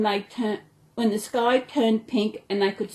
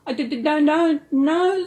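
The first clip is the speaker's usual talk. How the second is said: higher, stammering in fear; scared stammer; 6 semitones higher, 4 dB louder than usual. A narrator's reading. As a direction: stutter it out scared. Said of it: "Snugglepot said with his hands covering his ears".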